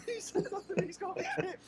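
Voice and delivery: high and loud through the laughter; cracking up mid-sentence; laughing. Real, not acted. Karl's friend mocking the diary, laughing hard.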